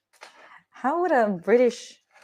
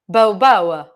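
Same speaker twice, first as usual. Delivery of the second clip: loud bow bow bark attempt; Spanish dog bark; 2 semitones lower, 10 dB louder than usual. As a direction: try a Spanish dog's bark. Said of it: "How would a Spanish sound like?".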